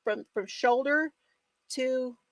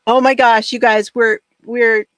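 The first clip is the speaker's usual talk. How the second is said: ordinary delivery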